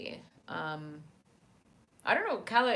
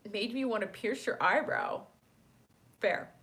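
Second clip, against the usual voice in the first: talking with hiccups; hiccup-broken speech; 3 semitones higher than usual. Real, not acted. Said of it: "Sorry, I have the hiccups now".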